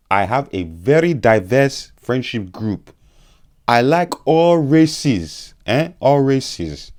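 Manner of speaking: mock African accent, high and slow. Vlogger jokingly apologizing to viewers in a mock African accent. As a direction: put on an African uncle voice. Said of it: "you can see now that I'm doing African accent".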